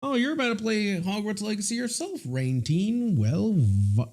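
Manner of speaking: put-on light Indian accent, playful. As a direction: speak like an Indian uncle. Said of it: "I'm talking like a person from India".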